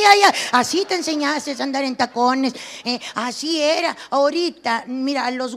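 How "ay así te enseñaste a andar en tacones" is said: normal talking voice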